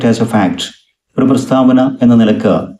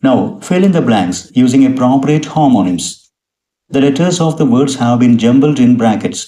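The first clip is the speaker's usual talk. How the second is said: slow, carefully spaced English reading; slow dictation reading; much slower than usual. Shown as a demonstration. Teacher reading an English definition to students, slow and spaced. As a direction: read each English word out slowly, as if for dictation. Reads the exercise instructions slowly.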